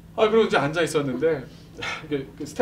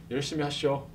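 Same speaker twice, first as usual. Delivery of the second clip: Jeolla dialect; 6 dB quieter than usual. Retold or imitated. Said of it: "그러고 그냥 가는 거예요".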